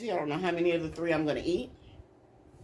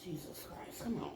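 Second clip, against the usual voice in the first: straining; 15 dB quieter than usual. Real, not acted. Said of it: "My strength is just totally gone".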